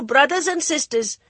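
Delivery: high, loud, pleading address; high nervous voice. Acted. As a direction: stress BROTHERS to the crowd. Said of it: "The high, nervous voice".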